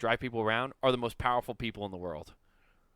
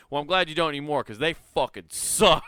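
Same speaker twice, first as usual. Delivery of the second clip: laughing retold quote; 3 semitones higher, 4 dB louder than usual. Retelling the worker's jab at his old bank, laughing. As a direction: let a laugh break the words. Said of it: "He's like".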